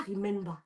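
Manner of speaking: "remember" said as "ree-MEN-ba"; French-accented "remember" ending in an open "ba"; mispronounced "remember". Shown as a demonstration. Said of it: "On ne dit".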